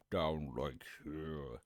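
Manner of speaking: dropping down low at the end; deep voice. Shown as a demonstration. Streamer showing what a deep voice is, deep. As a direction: sink down into a deep voice. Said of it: "When I think of deep voice".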